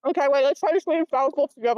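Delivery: talking with a mouth full of food; words round a bite of nugget. Real, not acted. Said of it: "you said that with a full mouth".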